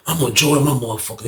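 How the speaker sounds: softened, serious imitation; quiet, serious. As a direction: drop the volume and mean it. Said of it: "He got quiet, his voice".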